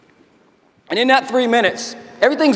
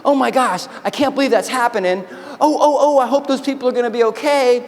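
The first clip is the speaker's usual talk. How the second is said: pitched-up bystander fretting, lightly hammed-up; mock hand-wringing; 3 semitones higher than usual. Onlookers defaulting to doing nothing, mock concerned fretting. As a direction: fret helplessly, imitating someone who only watches. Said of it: "what it looks like is this".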